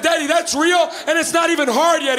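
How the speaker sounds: a touch of excited insistence; kids answering dad. Retold or imitated. Kids tell their dad the video is real, excited. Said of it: "we went".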